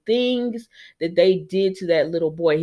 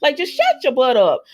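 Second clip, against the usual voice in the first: repeated louder, a bit higher; louder scolding; 5 semitones higher, 3 dB louder than usual. Retold or imitated. The vlogger telling Ridge to hush, louder and sharper. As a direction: raise it into a real scold. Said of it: "And I said".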